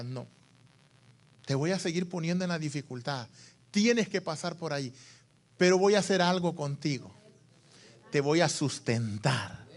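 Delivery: gentle divine reassurance. Acted. God answers the anguished believer, gentle reassurance. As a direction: speak low and softly, as a quiet promise.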